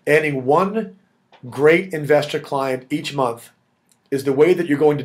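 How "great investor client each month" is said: "great" leaned on, slow and deliberate; stress on great. Shown as a demonstration. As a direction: hit the word "great" and slow the phrase. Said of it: "I'm gonna emphasize the word great".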